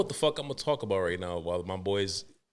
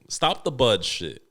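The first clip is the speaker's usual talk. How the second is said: ordinary delivery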